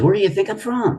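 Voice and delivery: high, put-on South African drawl; imitating Ron's drawl. Ron pressing Jim to guess, mock drawl. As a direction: ask it as a sly riddle in a borrowed drawl. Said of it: "you know that drawl he had".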